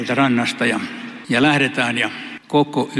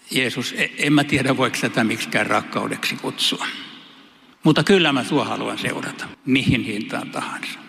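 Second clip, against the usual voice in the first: humble sincere answer; 2 semitones lower than usual. Pretend. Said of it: "Mä kai vastaisin jotenkin näin".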